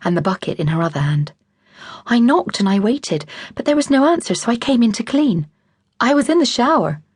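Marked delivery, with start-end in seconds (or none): 2.1-5.5 high, rushed, pleading explanation; flustered apology. Acted. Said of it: "in supplication". 6.0-7.0 put-on American accent. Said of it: "His accent was distinctly American".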